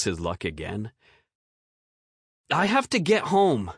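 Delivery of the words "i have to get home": put-on high, sharp kid retort; spat retort. A narrator's reading. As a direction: spit the words back as a boy. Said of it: "Bo spat back".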